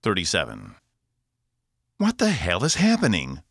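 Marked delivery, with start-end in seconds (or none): 2.0-3.4 high, loud alarmed shout; yelling. A narrator's reading. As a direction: yell it across the bridge. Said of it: "Wolf yelled".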